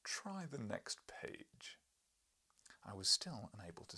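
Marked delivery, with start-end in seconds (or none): 0.0-1.8 serene. Acted. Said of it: "He smiled serenely".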